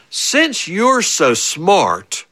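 imitated sarcastic dad. Father's sarcastic retort, acted slowly.

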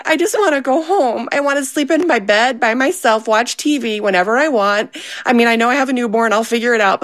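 put-on pouting like she just wants her old life back; whiny escape fantasy. Mom retelling her meltdown to friends, mock whiny. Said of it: "I'm like".

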